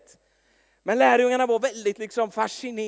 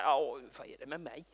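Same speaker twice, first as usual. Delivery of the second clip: whispered, puzzled under the breath; a soft bewildered whisper; confused whisper; 6 semitones lower, 10 dB quieter than usual. Retold or imitated. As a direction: whisper it to yourself, baffled. Slow-witted self, confused aside.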